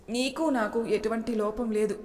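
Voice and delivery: slow, gentle reassurance; reassuring. Acted. Husband wiping wife's tears, slow and reassuring.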